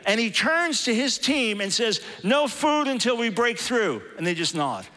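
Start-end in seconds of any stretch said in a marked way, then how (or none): 2.2-4.0 firm and flat, slow, no softening at all; blunt order. Retold or imitated. Indian leader telling his team there is no food, firm and blunt. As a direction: lay it down as a plain rule. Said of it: "That's a little different than my approach".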